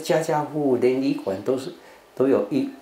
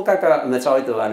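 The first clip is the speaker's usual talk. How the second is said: laughing; 4 dB louder than usual. Real, not acted. Amused recalling garbage disposal.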